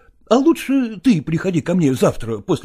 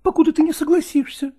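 much higher insistent cry; exclaiming; 13 semitones higher than usual. A narrator's reading. Nastina holds Lagorsky back, much higher insistent cry. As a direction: refuse to let him go. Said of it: "воскликнула Настина".

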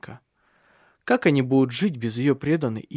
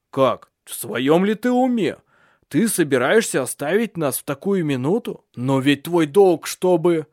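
raised, louder reproach; indignant scolding; 4 semitones higher, 5 dB louder than usual. A narrator's reading. Family scolding the maid for leaving, indignant.

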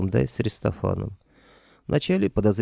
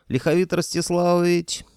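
yelling upward; 9 semitones higher than usual. A narrator's reading. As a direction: shout the name up at the rafters. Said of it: "заорал я в потолок".

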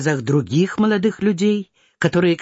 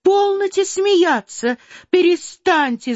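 mock shout; 11 semitones higher than usual. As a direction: cry out to stop her mother laughing. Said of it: "закричала Наташа".

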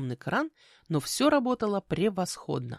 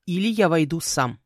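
loud, firm ultimatum; insistent threat; 6 dB louder than usual. Acted. Man outside threatening to come in, insistent. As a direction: warn with blunt authority. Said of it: "настойчиво повторил".

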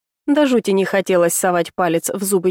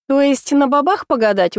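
smirking; 5 semitones higher than usual. Acted. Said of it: "ухмыльнулась я".

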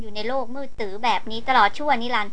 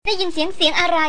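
higher-pitched, stammering urgency, lightly acted; excited, breathless; 5 semitones higher than usual. A narrator's reading. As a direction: narrate her startled excitement with a raised, halting voice. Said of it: "เสียงของหล่อนตื่นเต้นเร่าร้อนกระหืดกระหอบ". (เสียงสูงขึ้น ตื่นเต้นตะกุกตะกักเล็กน้อย)

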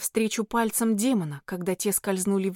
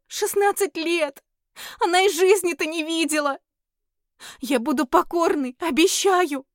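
desperate tearful plea; 7 semitones higher, 4 dB louder than usual. Acted. Heroine begs the demon for the fairy, desperate tearful cry. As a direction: beg in hysterics, last line shouted. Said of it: "выкрикнула я".

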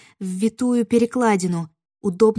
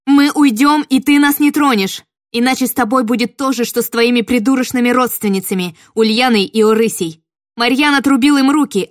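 put-on girl threatening the witch, shouting at full force; 3 semitones higher, 8 dB louder than usual. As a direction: yell it with the sword raised. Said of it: "крикнула я".

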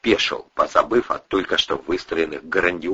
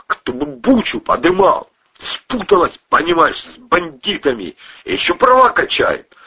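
put-on drunken rant; 12 semitones higher, 4 dB louder than usual. A narrator's reading. Пьяный кузен кричит.

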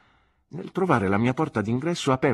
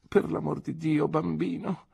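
put-on higher, brisk elderly aunt's exclamation; a lightly voiced stiff old lady protesting; stern aunt exclaiming; 7 semitones higher than usual. A narrator's reading. Aunt scolding her nephew, lightly voiced and exasperated. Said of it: "esclamò mia zia".

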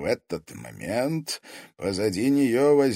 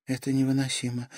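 ordinary delivery

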